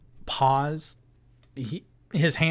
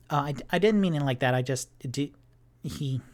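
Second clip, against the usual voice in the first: apologetic and eager, rushing the words; nervous Tipsy; 3 semitones higher, faster than usual. Acted. Tipsy backpedals.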